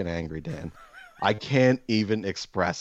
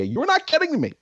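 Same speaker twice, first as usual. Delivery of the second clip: high, strained falsetto insisting it's fine; mock calm inner voice; 4 dB louder than usual. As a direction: squeak it out like you're barely holding it together. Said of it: "callback to his mock calm voice".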